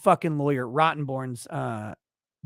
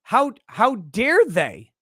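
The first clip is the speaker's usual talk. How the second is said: mocking indignant accused. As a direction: ham up their outraged innocence. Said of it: "they're always like".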